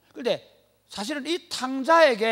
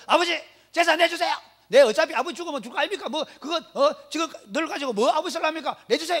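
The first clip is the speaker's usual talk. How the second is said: pitched high and loud, brash and pushy; rude demanding son; 8 semitones higher, 4 dB louder than usual. Retold or imitated. Younger son, drunk, demands his inheritance from his father, brash and loud. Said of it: "매일 밤마다 가가지고 술 먹고 가가지고".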